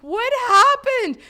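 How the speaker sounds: high, slow worried ask; concerned roommates. Retold or imitated. Roommates seeing her red eyes, high and worried. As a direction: ask with alarm. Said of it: "they're like".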